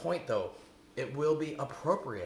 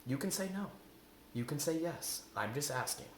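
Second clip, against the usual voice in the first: no-pressure asking; 5 dB quieter than usual. Shown as a demonstration. Models a request without pressure.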